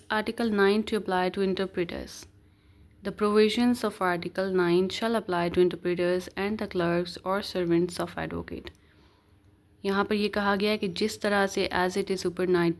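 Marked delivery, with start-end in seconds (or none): 0.1-8.7 slow, deliberate reading of legal text; measured recital of the law; reading the statute. Acted. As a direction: read each word out slowly like dictation. Reads out Article ten.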